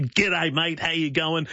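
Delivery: lightly hammed-up Aussie greeting; strong Aussie accent. Shown as a demonstration. Host showing the greeting he uses at events, strong Aussie accent. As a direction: lay on the Aussie accent a bit. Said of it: "the strong ... Aussie accent".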